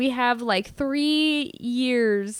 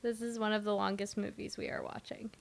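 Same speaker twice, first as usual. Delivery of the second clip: whispering; 11 dB quieter than usual. Real, not acted. Whispered remark to co-host.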